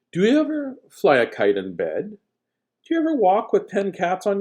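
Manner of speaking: hushed, breathy question read aloud; whispered reading. Acted. Reading the kids a Seuss line in a whisper.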